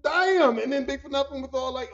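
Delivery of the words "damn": loud, high, drawn-out shock; stunned exclamation. Retold or imitated. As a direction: holler it in disbelief. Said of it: "I was just like".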